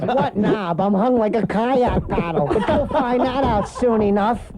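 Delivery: lightly voiced nasty puppet; slow it slightly, a hint of lewd puppet; George the puppet. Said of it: "the puppet the whole time".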